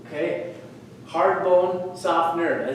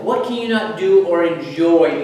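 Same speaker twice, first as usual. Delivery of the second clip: "enjoy" punched louder; stress on enjoy; 8 dB louder, slower than usual. Real, not acted. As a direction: lean hard on the word "enjoy". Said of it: "I emphasize the words enjoy".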